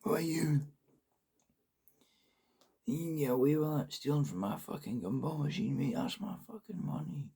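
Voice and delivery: high, loud angry accusing shout; distant shout. Acted. Stranger shouts after the fleeing man who took his money, angry shout. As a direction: call out high, accusing a thief from afar. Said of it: "I heard a shout in the distance".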